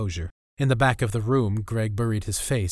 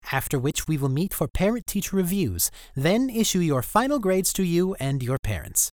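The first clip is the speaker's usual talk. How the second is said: whiny teacher voice; 4 semitones higher than usual. Acted. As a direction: announce to class, grating and pompous. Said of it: "his whiny voice".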